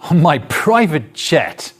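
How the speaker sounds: slow, drawn-out "private jet", falling at the end; "private jet" said slowly and pointedly; ironic intonation demo. Shown as a demonstration. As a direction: stretch out "private jet" as a mock brag. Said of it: "that's intonation".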